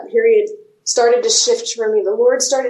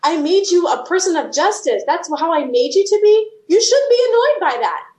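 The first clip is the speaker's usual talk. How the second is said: higher, lightly voiced reassuring God; voicing God; 5 semitones higher than usual. A hint of God reassuring her about her annoyance. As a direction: give God's gentle answer, pitched up. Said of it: "And he'd be like".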